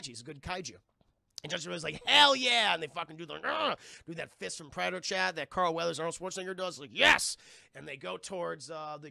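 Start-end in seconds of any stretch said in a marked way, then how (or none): 2.1-2.7 loud, high whoop; acted macho cheer; pumped agreement. Acting character's eager agreement. 3.4-3.8 loud, high effortful grunt; hammed-up action-hero grunt; macho grunt. Imitating fist clasp grunt. 6.9-7.4 loud, high macho yes; punchy mock-heroic cry; triumphant yell. Imitating action heroes.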